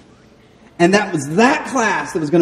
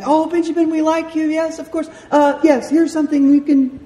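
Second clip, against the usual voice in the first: much higher put-on doting voice; fawning admirers; 12 semitones higher than usual. People telling Benjamin they like him, fawning. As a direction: gush indulgently in a high-pitched voice.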